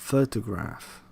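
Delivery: "Photograph" stressed on its first syllable, PHO-. Shown as a demonstration. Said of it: "the stress syllable is bolded".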